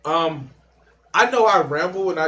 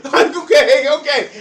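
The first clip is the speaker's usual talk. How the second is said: real laughter, much higher; laughing; 10 semitones higher, 8 dB louder than usual. Real, not acted. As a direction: crack up at your own joke. Cracks up at own joke.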